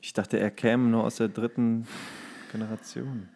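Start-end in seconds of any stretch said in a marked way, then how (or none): none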